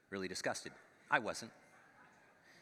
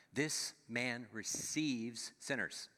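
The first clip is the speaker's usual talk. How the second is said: grumbling complaint; 3 semitones higher, much slower than usual. Retold or imitated. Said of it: "This is their complaint".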